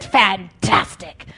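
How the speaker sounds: "fantastic" drawn out slow and low, unimpressed; deadpan mock. Preacher deflating the hype, "fantastic" slow and low. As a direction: let "fantastic" sag, slow and flat-out unimpressed. Mocking hype about worship services.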